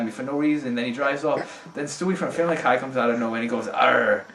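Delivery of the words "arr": loud growly pirate arr; mock pirate growl, getting louder. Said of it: "he started acting like a pirate".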